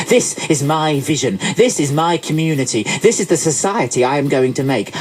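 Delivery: lightly voiced self-satisfied politician; a touch of speechmaking, grand then grudging; eminent politician. Politician announcing charity boards to Job, lightly pompous.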